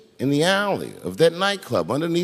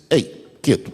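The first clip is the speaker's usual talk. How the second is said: gently; 3 semitones lower than usual. Retold or imitated. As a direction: ease "Hey, kid," down gently with a falling tune. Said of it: "he stopped me gently".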